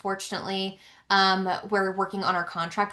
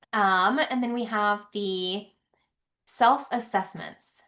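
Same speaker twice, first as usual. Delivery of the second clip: out of breath; slower than usual. Real, not acted. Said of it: "I'm getting winded from giving you all this information".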